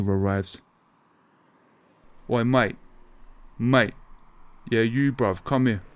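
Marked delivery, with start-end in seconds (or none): 2.3-5.8 put-on calling the kid over like a local rude boy. Debt collector calls the schoolboy over, casual rude boy voice.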